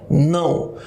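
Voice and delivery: "Não" buzzing in the nose; "Não" as a nasal glide into U; nasal demonstration. Shown as a demonstration. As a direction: say "Não" low, so the nose vibrates. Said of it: "um tremor no seu nariz aí".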